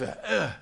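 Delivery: short acted grunt of effort; straining grunt. Man on the mat stretching toward Jesus, acted straining grunt.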